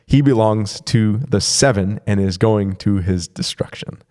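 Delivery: deliberate reading with measured pauses. Real, not acted. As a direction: read it carefully, phrase by phrase. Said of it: "I had to read it a little bit slower".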